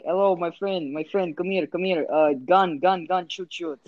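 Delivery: lightly faked Indian accent; shitty Indian accent. Walking up to someone in the game as a prank, mock Indian accent. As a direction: put on a bad Indian accent, in short choppy phrases. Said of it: "like, a fucking shitty Indian accent".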